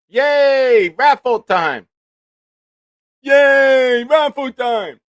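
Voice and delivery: very high, loud puppet-character cheer; Crank Yankers character. Acted. Host announcing the raffle as a Crank Yankers puppet, shrieking high and loud. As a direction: squeal it out like an overexcited prank-call puppet. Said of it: "Crank Yankers".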